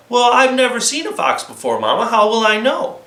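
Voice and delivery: put-on girl asking her mama; lightly voiced little girl. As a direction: ask like a curious child. Flossie's voice.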